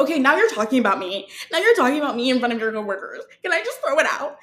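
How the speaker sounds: rushed, put-upon pleading; flustered protest. Retold or imitated. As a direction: blurt out an exasperated objection, speeding up. Acted protest to the guards.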